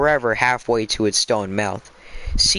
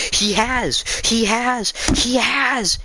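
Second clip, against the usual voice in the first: much higher, squeaky little voice; squeak; 12 semitones higher, slower than usual. A narrator's reading. Young squirrel squeaking at the witch, lost its head. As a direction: squeak it out like a panicked baby squirrel. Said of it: "it squeaked".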